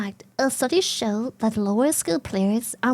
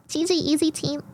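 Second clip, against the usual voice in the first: uwu voice; 3 semitones higher than usual. Retold or imitated. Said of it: "my best uwu voice ever".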